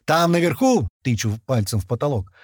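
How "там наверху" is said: very high, raised shout; yelled orders. A narrator's reading. Sending thirty men into the lift, yelling. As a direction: bellow orders to a crowd. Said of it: "выбегаю из клетки и ору".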